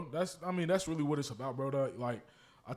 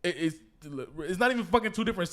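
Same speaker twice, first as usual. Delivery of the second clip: louder exasperated stress on two; 3 semitones higher, 6 dB louder than usual. Real, not acted. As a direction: hammer the word two in frustration. Frustrated about states.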